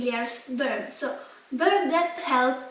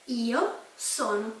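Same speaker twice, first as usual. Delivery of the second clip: slow repetition; 2 semitones lower, 4 dB quieter than usual. Shown as a demonstration. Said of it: "I am".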